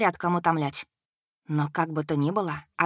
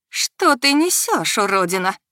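hissed; 3 semitones higher, 6 dB louder than usual. A narrator's reading. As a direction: spit it out, losing control. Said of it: "прошипела Агая". (прошипела в ярости)

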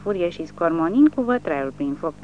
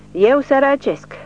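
much higher and louder, slow indignant yell; insulted yell; 9 semitones higher, 7 dB louder than usual. A narrator's reading. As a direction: howl it as if deeply insulted. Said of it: "urlă el, simțindu-se insultat".

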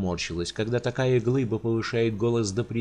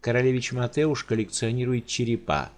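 a careless noblewoman chattering; carefree countess. Acted. Countess casually explains her gift to the giant.

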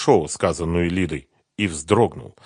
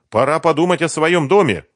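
put-on higher, louder lively young woman; eager young woman recalling Kiev; Sveta's voice; 8 semitones higher, 6 dB louder than usual. A narrator's reading. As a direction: chatter it brightly as Sveta.

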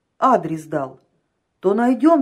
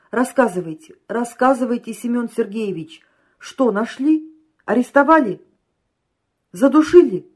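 urgent questions, building louder and higher; eager questioning; 4 semitones higher, 6 dB louder than usual. A narrator's reading. Impatient client demanding news from agent, eagerly questioning. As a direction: press for news, each question more excited.

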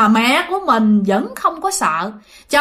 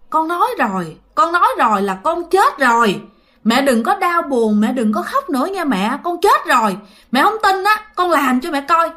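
retold insistence, rising higher as it goes; insistent son; 4 semitones higher than usual. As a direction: act a son trying to convince his mother. Dead son insists to mother.

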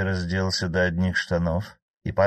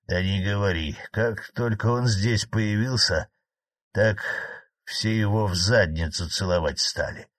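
indignant. Acted. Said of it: "возмутился Владимир".

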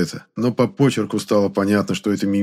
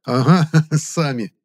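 slow, laughing through it; scornful laugh at the cultists; burst of laughter; 6 semitones higher, 3 dB louder, slower than usual. A narrator's reading. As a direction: laugh right in their faces. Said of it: "расхохотался я".

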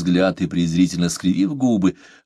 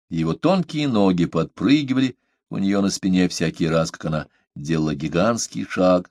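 ordinary delivery

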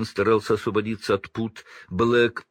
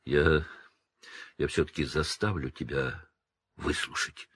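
hoarse; 5 semitones lower, 5 dB quieter than usual. A narrator's reading. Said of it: "хрипло проговорил он".

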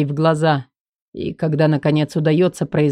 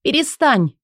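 Элли's voice; 8 semitones higher than usual. Acted. Элли higher.

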